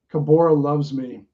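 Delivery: deadpan, matter-of-fact claim; understated, even delivery; straight-faced. Acted. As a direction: state it with a straight face. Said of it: "says it with a straight face".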